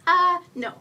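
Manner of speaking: loud, high critter refusal; raccoon retort. A narrator's reading. Raccoon answers being told to go away, retorting. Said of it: "Critter answers".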